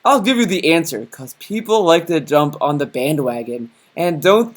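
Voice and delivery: lightly voiced commenter; a hint of a put-on reader voice; Wolf voice. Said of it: "the Wolf voice".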